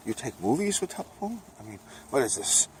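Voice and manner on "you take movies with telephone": high, incredulous "Telephone?" on a sharp rise; mock disbelief. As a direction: act baffled by the word. Mock old-timer surprised at phones.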